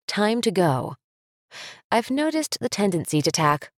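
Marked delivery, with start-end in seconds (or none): 0.1-1.0 "Time to go." with the pitch falling on "go"; falling command. Shown as a demonstration. Parent telling child it's time, falling firm statement. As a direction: drop it at the end, a plain statement. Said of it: "is different than".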